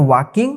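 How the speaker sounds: "walking" with the L left silent; teacher's model "walking", L unspoken. Shown as a demonstration. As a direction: say "walking" as "waa-king", no L sound. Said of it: "यहाँ पे जो है एल silent हो गया है".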